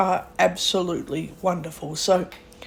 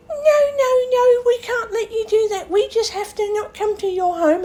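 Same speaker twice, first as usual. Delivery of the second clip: much higher mock voice of fussy care workers; 14 semitones higher than usual. Telling of old lady's workers, mimicking them high and fussy. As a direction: mimic their panicky refusal, pitched way up. Mocking other workers' refusal.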